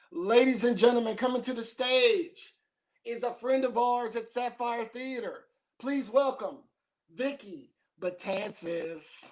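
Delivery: stage announcer bringing on the act; announcer intro. Acted. Host introduces first performer.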